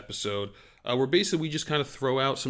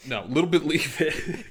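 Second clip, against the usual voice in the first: bad British accent; 5 semitones higher than usual. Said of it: "I can't do a British accent".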